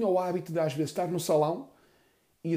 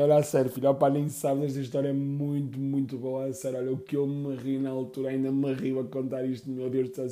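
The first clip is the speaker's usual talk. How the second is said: mother laughing. Retold or imitated. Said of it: "a rir-me ... E a minha mãe".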